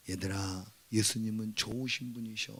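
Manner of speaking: put-on soft, low voice to children; acted quiet reassurance; gentle parent. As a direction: explain it tenderly, as a parent would. Parent gently telling children of Jesus.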